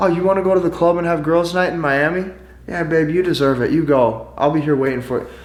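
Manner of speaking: meek, passive, agreeable pushover voice. Acting out how a guy answers her plans, imitating a passive voice. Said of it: "the tone of voice is so passive".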